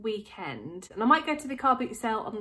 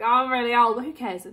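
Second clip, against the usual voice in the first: mock old lady; 3 semitones higher, 10 dB louder than usual. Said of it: "so I think".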